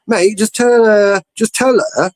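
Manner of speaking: telling the friend to stand his ground; firm advice. Retold or imitated. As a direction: lay it out slowly for him. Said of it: "And I said".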